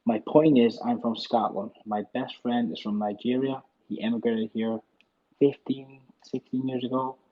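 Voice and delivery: put-on American accent; generic American accent. Shown as a demonstration. Scottish caller making himself understood to host, generic American accent. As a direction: Scot switching into generic American. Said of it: "I'll do it in American".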